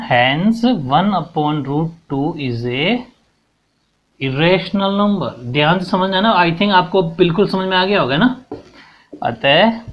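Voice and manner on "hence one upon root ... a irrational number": drawn out, word by word for writing down; slow dictation. Shown as a demonstration. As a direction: dictate the conclusion slowly. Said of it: "last में क्या लिख देंगे अपन?".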